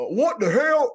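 lost in the name mix-up, a high bewildered blurt; confused outburst. Real, not acted. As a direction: blurt it out, baffled.

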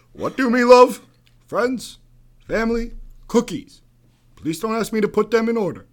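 Obama cadence reading Cookie Monster tweets. Pretend. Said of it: "oh, I got one".

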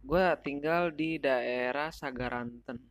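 talking around a cigarette; smoking while talking; cigarette in mouth. Real, not acted. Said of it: "sambil ngerokok juga ya".

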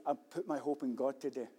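soft, low affirmation; quiet declaration. Acted. A believer telling himself quietly, firm and soft. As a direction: say it softly to yourself. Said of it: "You say".

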